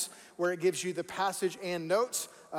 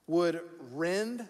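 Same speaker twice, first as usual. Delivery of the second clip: deliberate, drawn-out verse reading; slower reading. Shown as a demonstration. Pastor rereads the verse for underlining, slower reading. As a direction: let the words stand apart. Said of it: "let's read it again a little slower".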